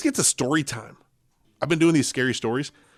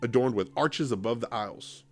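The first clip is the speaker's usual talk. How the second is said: story narration; 3 semitones higher, slower than usual. Acted. Reads scary story aloud.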